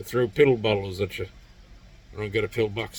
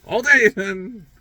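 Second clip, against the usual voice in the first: higher, louder defiant all day then; defiant taunt; 10 semitones higher, 3 dB louder than usual. Retold or imitated. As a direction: throw the challenge back, daring them. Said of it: "And I was like".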